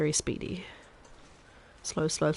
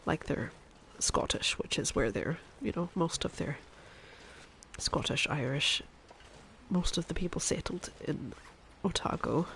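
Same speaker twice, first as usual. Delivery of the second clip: Chef Maria; 4 dB quieter than usual. Acted. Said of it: "I can go back to speaking like a normal person now".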